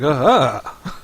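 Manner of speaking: loud, odd mock cry; half-laughed pretend scream; weird scream imitation. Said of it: "just weird sounds".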